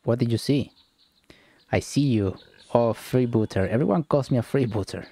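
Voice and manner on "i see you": a mystic's breathy whisper, no voice. Acted. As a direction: whisper it like a seer seeing you. Mystic reading a fortune.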